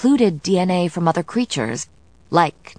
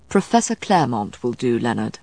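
low, mild correction; 5 semitones lower than usual. A narrator's reading. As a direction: correct him mildly, voice kept low. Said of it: "Matthew said mildly".

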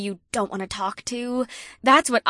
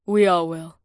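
purring; 3 semitones lower, 5 dB louder than usual. Acted. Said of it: "Naomi purred".

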